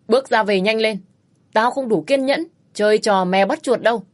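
husband running out of patience with wife; angry threat. Acted. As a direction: lose patience and threaten her.

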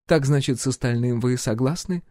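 composed royal inquiry; empress voice. A narrator's reading. Empress questions the hero's plans, lightly voiced.

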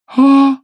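very high loud scream. A narrator's reading. Lady finds the body and screams very high and loud. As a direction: shriek in horror.

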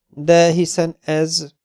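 stunned dawning surprise; surprised start. Acted. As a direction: start to blurt it, then stop short. Breaks off in surprise.

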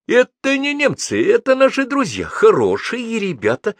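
high, loud, agitated reassurance; anxious jabber. A narrator's reading. Companion jabbering that these are friends, agitated. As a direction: babble reassurance with the pitch way up. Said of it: "тараторил Живой".

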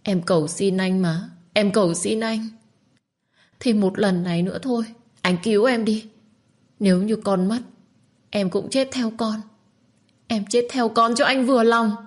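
beg, then threaten in despair; young mother sobbing out her last plea; tearful desperate plea. Acted. Minh begs, threatens to die.

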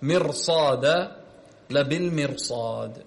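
slow مرصاد and لبالمرصاد with a thick, broad ra; heavy ra. Shown as a demonstration. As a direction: draw out the heavy ra before sad in لبالمرصاد. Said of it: "هنا أيضًا تفخم".

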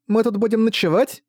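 put-on high child's question; eager little girl.

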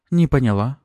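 high, puzzled woman's voice; surprised. A narrator's reading. Woman startled by Maxim's blunt remark, surprised. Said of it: "удивлённо уставилась на меня".

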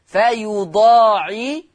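very slow recited فيضاعف, opening towards a final "fa"; drawn-out Hafs فيضاعف; fatha on fa. Shown as a demonstration. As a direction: stretch the long aa of فيضاعف in teaching recitation. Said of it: "يقرأ بفتح الفاء".

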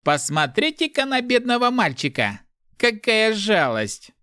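high-pitched fake pity; mocking softness. A narrator's reading. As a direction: coo mockingly as if pitying a child. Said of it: "Голос стал издевательски мягким".

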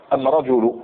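أم رجل with am- in place of al-; Himyar article. Shown as a demonstration. Teacher giving an example of Himyar speech, am- for al-. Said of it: "هما عندهم أم".

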